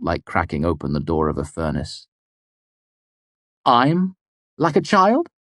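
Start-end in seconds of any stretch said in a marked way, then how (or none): 3.6-5.3 high, indignant retort; spat out. A narrator's reading. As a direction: spit it back at her. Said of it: "I spat".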